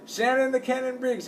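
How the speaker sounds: imitation press-conference announcer; ring announcer. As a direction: announce the fighter to a crowd. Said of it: "introducing the".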